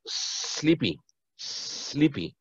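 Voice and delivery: Sleepy whispered with a long s and no e before it; soft hiss on the s of Sleepy; hissed pronunciation. Shown as a demonstration. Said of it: "sleepy con E, no".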